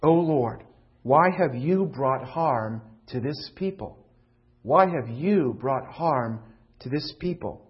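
loud, slow, anguished cry to God; Moses' anguished plea. Acted. Moses crying out to God in anguish. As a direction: demand an answer from God. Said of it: "He says to God".

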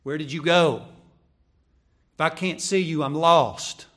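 loud, urgent searching call; calling out lost. Acted. Preacher as lost sheep searching for the shepherd, urgently. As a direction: call loudly as if you've lost your guide.

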